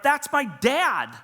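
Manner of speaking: laughing in disbelief at the wrong name on the award. Retold or imitated. Reading the award plaque to the office, laughing high and loud. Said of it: "And I'm like".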